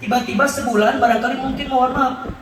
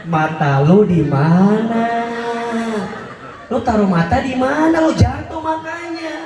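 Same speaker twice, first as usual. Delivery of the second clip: mock scolding husband. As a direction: play the rude husband snapping at his wife. Suami membentak istri yang jatuh. (suami kasar pura-pura membentak istri)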